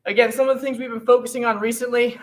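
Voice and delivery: winded, fast talking after exercise; breathless after the workout; out of breath. Real, not acted. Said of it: "I'm a little bit winded too".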